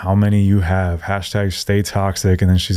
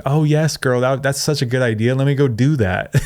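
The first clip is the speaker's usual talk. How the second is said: mock gushing girlfriend; 2 semitones higher than usual. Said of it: "other women are gonna hear and be like".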